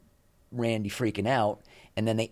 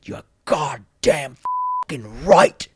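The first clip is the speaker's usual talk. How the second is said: slow, hammered words, much louder at the end; furious in-your-face snarl; 4 semitones higher, 7 dB louder, slower than usual. Retold or imitated. Producer in the host's face, slow furious growl. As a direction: jab each word at him. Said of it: "He got right in my face".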